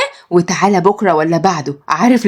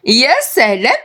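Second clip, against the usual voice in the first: sweet daughter voice; 3 semitones higher than usual. Acted. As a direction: greet dad lovingly, pitched up. Somaya insists.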